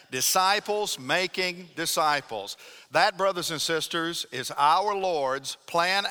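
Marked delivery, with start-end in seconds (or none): 0.1-2.5 congregation recital. Shown as a demonstration. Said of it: "Say it again".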